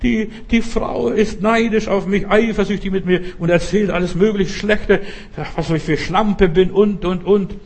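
hammed-up tearful lament, pitched high; mock wailing. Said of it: "plärt und sagt".

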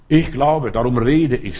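loud proclaiming Paul quote; a loud, fervent apostle's confession; proclaiming loudly. Acted. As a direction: declare it out loud with conviction. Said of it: "sagt Paulus".

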